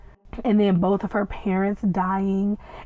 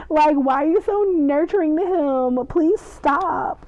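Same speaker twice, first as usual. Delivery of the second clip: high, loud, squealing protest; overwhelmed fan; 6 semitones higher, 3 dB louder than usual. Real, not acted. Fan squealing at the nurturing vampires. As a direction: beg them to stop, giddy.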